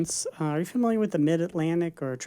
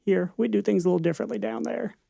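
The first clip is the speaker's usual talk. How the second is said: Bill Clinton; 4 semitones higher than usual. Shown as a demonstration. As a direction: tease her in a folksy Arkansas politician's accent. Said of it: "pretty good Bill Clinton accent".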